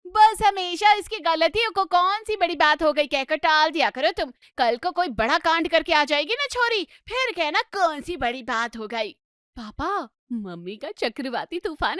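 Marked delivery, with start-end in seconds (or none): 0.1-9.1 exasperated scolding. Acted. Wife scolding lenient husband.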